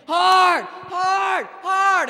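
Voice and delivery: three very high, very loud yells; repeated shouts. Retold or imitated. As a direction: hammer the word over and over. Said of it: "he'll yell back again".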